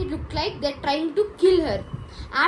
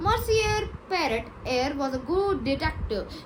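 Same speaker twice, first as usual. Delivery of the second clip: French accent. Shown as a demonstration. Retelling how the Frenchman's friend vouched for him, French accent. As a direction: put on a light French accent, lifting the name. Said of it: "He's saying it in a French accent".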